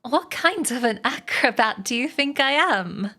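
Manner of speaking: be mildly affronted, as if insulted; understated storybook disgust. Acted. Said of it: "said Charlotte in disgust".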